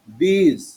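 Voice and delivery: "These" starting with a clear দ; teacher's demo, "These" with th as দ. Shown as a demonstration. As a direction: model "These" with a d sound. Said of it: "মানে দ".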